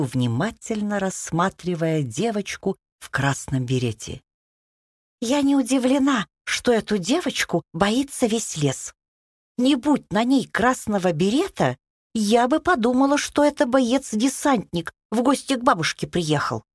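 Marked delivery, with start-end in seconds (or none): 5.2-16.6 put-on wry girl's voice. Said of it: "прокомментировала Рада".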